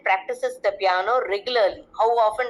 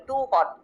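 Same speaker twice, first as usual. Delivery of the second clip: "too" hit harder than "hot"; stress on too; 4 semitones higher than usual. Shown as a demonstration. Teacher demonstrates emphasis to children, stress on "too". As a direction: push the word "too". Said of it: "Too is the adverb of emphasis".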